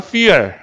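fuel begun with an F sound; F sound demo. Shown as a demonstration. Teacher shows this is also an F, fuel with F sound. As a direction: model "fuel" with F, not P. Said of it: "얘도 F 사운드야".

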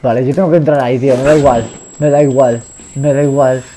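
loud, urgent insistence; loud bravado. Real, not acted. Rushing in despite the danger. (decidido, a voz en grito)

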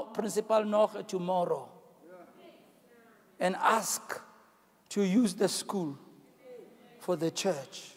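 low, quiet, spaced-out command; retold divine instruction. God instructing the pastor to visit the principal, retold quiet instruction. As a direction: give the instruction softly in separate slow phrases. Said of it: "And he says".

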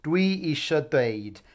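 calm repeat for learners; steady teacher repeat; repeat model. Shown as a demonstration. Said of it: "it really doesn't matter which way you say it".

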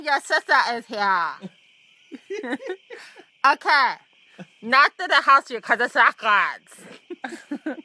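talking through a cheek retractor; words distorted by a mouthpiece; mouth guard talk. Real, not acted. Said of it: "Why are you talking like that?".

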